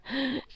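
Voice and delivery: quiet airless gasp; a man suddenly out of air; choking gasp. A narrator's reading. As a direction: gasp like you can't breathe. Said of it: "he gasped like he couldn't get air".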